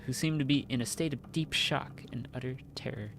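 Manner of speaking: even, steady narrator reading; story narration. A narrator's reading. Narrator describing the knight and prisoners, measured storytelling. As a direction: set the scene for the party, calmly. Reads game narration aloud.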